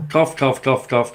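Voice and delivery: mock coughing fit, spoken as the word cough; imitated smoker's cough. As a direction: mimic the ex-girlfriend's morning cough, lightly. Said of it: "they'd have to have another fag".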